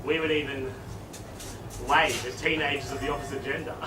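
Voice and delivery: low, soft account of youth; nostalgic reminiscing. Acted. Principal reminisces about his youth.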